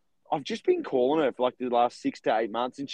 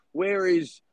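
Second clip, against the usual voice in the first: imitated Italian accent, lightly put on; thick Italian accent; 3 semitones higher than usual. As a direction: mimic an Italian caller's accent. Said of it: "in this thick Italian accent".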